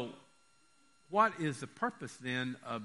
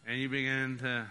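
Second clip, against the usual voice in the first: put-on slurring like a drunk, slushy sh for s; drunken slur. Shown as a demonstration. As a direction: let the tongue go thick and slur. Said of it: "con la lengua trabada". (mock tipsy slurred speech)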